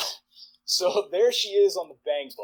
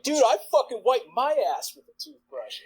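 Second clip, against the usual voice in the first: retold boast; 11 semitones higher than usual. Retold boast in group confession.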